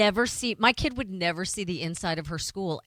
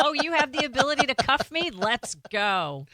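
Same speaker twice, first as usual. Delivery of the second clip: flirty tease; 6 semitones higher, 4 dB louder than usual. Pretend. Flirty joke about cops.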